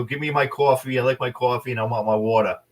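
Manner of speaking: hammed-up Boston coffee order; mock Northeast accent. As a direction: play up the Boston vowels to tease. Mimics Northeast accent to tease waitress.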